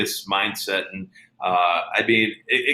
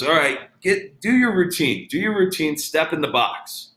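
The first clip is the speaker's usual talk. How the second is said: higher SoCal coach voice; imitating Ken Ravizza; 5 semitones higher than usual. Coach telling the player to step in, lightly voiced SoCal coach. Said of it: "really high, SoCal voice".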